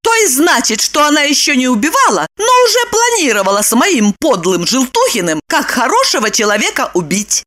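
high, eager woman's voice; Lipochka's voice. A narrator's reading. Lipochka explaining the plot to Roman.

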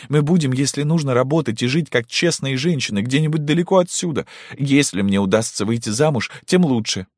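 high, insistent, rising declamation; fervent resolve. Acted. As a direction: make a stand, rousing. Daughter declaring her mission. (решительно, с пафосом)

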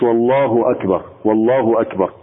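والله أكبر with a waw put before الله; added waw. Shown as a demonstration. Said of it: "ما يقولش". (والله أكبر بزيادة واو قبل لفظ الجلالة)

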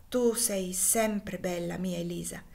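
slow, whispered loving words; tender. Acted. Husband tenderly reassures wife. (sussurro tenero del marito alla moglie)

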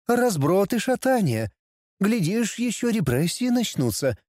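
high, sly tempting demoness; demon tempter voice. Acted. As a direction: coax and scare like a devil. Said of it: "голосом демона-искусителя".

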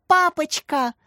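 high, happy cry; overjoyed. A narrator's reading. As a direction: burst out with delight at seeing dad. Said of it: "обрадовалась Катя".

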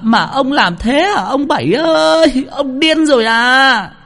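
wailing outcry. A narrator's reading. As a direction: cry out to rouse the whole village. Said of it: "Chị Bảy la làng la xóm".

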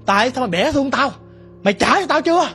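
lightly voiced demon, angry and accusing; vengeful demon. Demon threatens the man holding its bone, vengeful. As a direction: demand the bone back with mounting grievance.

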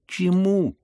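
high, loud scornful pounce; snatch at his word with scorn; scornful retort. Acted. Lizaveta mocks the prince's protest, high and loud.

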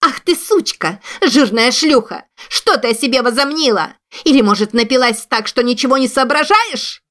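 shrieking abuse at a hated cousin; hysterical scream. A narrator's reading. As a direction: scream the insults at her cousin, losing all manners. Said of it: "истошно закричала".

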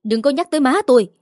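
crying out. Acted. Wife lashing out at her mother-in-law, mild outburst. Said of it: "Mỹ Duyên gào lên".

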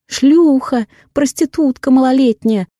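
mocking a shrieking angry wife; man doing a woman's voice. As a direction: screech it like the furious wife. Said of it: "коверкает голос и корчит лицо, изображая жену любовника".

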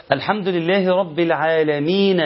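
العالمين ending in an audible short "na"; final vowel voiced. Shown as a demonstration. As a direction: sound the fatha on the noon of العالمين, unpaused. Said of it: "النون مفتوحة".

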